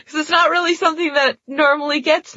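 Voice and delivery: can't keep the laugh out of it; laughing while talking. Real, not acted. Podcast cohost giggling about a sexy shoe-tying scene, laughing.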